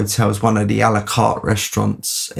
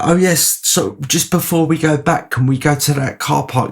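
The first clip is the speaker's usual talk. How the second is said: higher, keen; Adam begging one more stop, eager; eager request; 6 semitones higher than usual. Retold or imitated. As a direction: ask brightly, much higher. Adam's eager request retold.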